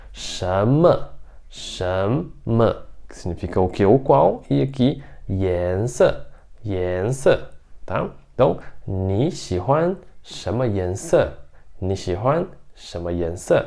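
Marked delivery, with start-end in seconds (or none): 0.1-2.8 "shama" said twice, clearly; Mandarin shenme. Shown as a demonstration. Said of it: "Vamos pra pronúncia aqui". 5.3-7.4 "yanse" said twice, clearly; Mandarin yanse. Shown as a demonstration. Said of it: "Vamos pra pronúncia aqui". 8.3-13.6 "ni xi huan shama yanse" slowly, syllable by syllable; Mandarin question, slow. Shown as a demonstration. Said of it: "Vamos pra pronúncia aqui".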